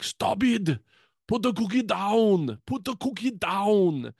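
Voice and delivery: high, strained action-hero impression with Austrian accent; Arnold Schwarzenegger. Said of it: "would turn into Arnold Schwarzenegger".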